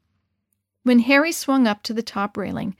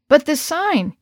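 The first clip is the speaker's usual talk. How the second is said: stammered; 5 semitones higher, 3 dB louder, slower than usual. Acted. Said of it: "he stammered".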